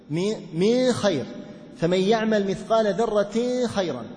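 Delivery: slow, with the ن of من hidden before خير; slow, nasal hidden ن in من خير; Abu Jaafar's reading. Retold or imitated. Teacher imitating Abu Jaafar's reading, slow, ن hidden before خ. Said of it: "فيقول".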